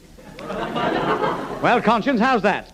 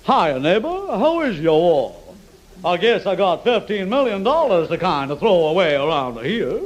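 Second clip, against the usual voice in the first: put-on American accent. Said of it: "you're supposed to be an American".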